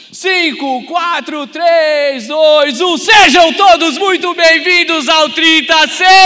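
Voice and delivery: countdown building to a full roar; roaring rallying shout. Acted. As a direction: yell the welcome at full power. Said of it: "agora é pra valer".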